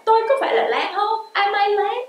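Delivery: high, playful asking herself; hỏi đùa giọng cao; playful self-question. Pretend. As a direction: lift up into a puzzled question to yourself. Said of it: "tôi tự hỏi tôi là".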